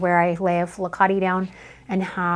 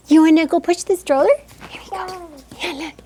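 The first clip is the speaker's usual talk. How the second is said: higher, louder, fast playful question; 8 semitones higher, 6 dB louder than usual. Real, not acted. Photographer inviting toddler to push stroller, excited.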